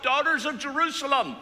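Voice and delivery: high, loud call, slowed on the commands; shouted warning. Retold or imitated. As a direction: shout it out straight ahead to the crowd. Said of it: "just shouts out".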